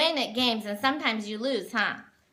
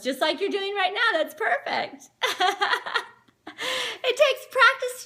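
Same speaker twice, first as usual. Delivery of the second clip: praise; 7 semitones higher than usual. Real, not acted. Praising the child's chewing.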